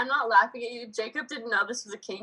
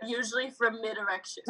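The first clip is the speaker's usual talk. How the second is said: laughing. Retold or imitated. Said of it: "he said".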